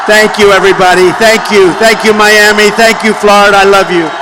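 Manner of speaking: rally speech. Real, not acted. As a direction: call out thanks to the crowd. Thanking the cheering rally crowd.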